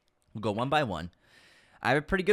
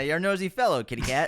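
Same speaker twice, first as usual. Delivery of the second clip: gangster impression; 2 semitones higher than usual. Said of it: "I can do it better".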